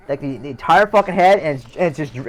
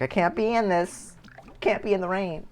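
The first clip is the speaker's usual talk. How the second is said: soft, higher-pitched fretting; mock paranoia; 3 semitones higher, 8 dB quieter than usual. Paranoid kid at the bus stop, softly fretting. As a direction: imitate a worried kid under his breath. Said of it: "and being all paranoid".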